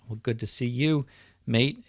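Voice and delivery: put-on a light, half-hearted Australian accent greeting; mock Australian accent. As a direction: toss off a quick Aussie greeting, barely put on. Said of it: "to speak to you in your Australian dialect".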